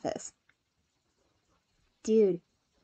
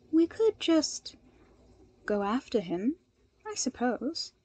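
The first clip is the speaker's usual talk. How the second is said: thoughtful; 2 semitones higher than usual. Acted. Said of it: "Momo said thoughtfully".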